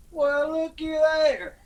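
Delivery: imitating daddy. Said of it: "Daddy said".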